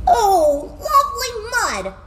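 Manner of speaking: high-pitched gleeful gush; delighted pig. A narrator's reading. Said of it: "said the pig".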